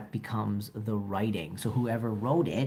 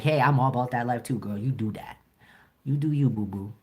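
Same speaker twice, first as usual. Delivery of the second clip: hyped supportive friend; 3 dB louder, faster than usual. Retold or imitated. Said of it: "And I'm like".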